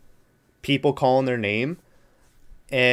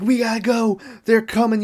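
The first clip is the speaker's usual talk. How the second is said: a mildly hammed-up panicked warning, higher; mock scared girl; 9 semitones higher than usual. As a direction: parody the bad actress fleeing, lightly. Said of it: "this really bad scared face".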